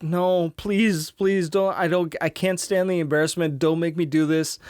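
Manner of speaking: put-on whiny plea of an embarrassed kid; pleading kid. Ralphie begging not to wear suit.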